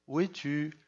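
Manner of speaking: God playing hide and seek with Adam; fading calls of where are you; mock searching call. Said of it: "il rentrait dans son jeu".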